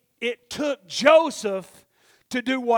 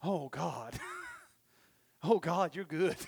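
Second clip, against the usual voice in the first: soft humbled prayer; 5 semitones lower, 9 dB quieter than usual. Retold or imitated.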